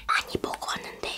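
talking between bites; chewy food in mouth; mouth full, chewing. Real, not acted. Seen 0: Cheeks full, lips pressed, chewing from -9; talks while chewing after.

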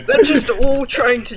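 laughing. Real, not acted. Laughing while explaining bots.

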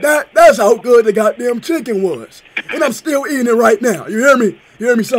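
hammed-up prank caller raving about chicken. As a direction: play a rowdy, overexcited customer on the phone. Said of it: "Was that a good voice?".

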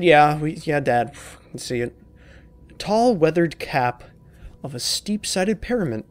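lightly acted fatherly diary reading; reading a note. Reading a father's diary to the viewers, lightly acted. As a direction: read the diary aloud, slow in places. Reads game note aloud.

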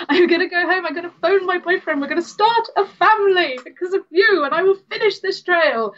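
a hint of a French hiker, pitched well up through a laugh; bad French accent. A French hiker vowing to finish the trail in a laughing, mock-French voice. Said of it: "I can't do a French accent".

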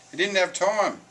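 high, loud protest; flustered little pig. A narrator's reading. Fleeing pig explains to his brother, flustered.

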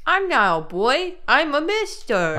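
lightly voiced indignant little boy; a touch of a kid insisting he's grown; wholesome 1950s kid. Kid voice in 1950s show bit.

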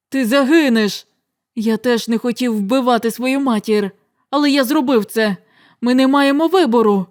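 loud, pressing confession; urgent pleading. Acted. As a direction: make him understand.

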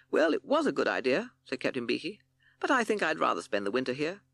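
a hint of a cheerful bird captain; Captain Beaky voice.

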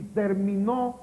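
slow "terminó" ending on a strong NÓ; ter-mi-NÓ, drawn out; stress on last syllable. Shown as a demonstration. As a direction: punch the final syllable of "terminó". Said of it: "lleva el acento en la".

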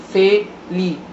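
"felicidade" broken up syllable by syllable "fe-li-ci-da-de"; "felicidade" pronounced syllable by syllable; split into syllables. Shown as a demonstration.

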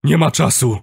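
high, insistent shout; urgent shout. A narrator's reading. Kuba dragging narrator onward, insistent shouting. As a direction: shout back without giving in. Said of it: "krzyczał, nie zamierzając odpuścić".

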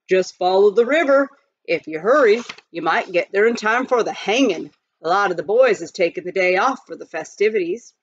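tossing off directions with a mild grin; lightly voiced miner. Miner tells the travelers about the hanging, lightly voiced.

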